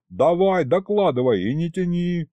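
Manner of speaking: yelling. A narrator's reading. Boss ordering the demon to report, yelling. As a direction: demand it angrily, no patience left. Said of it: "заорал я".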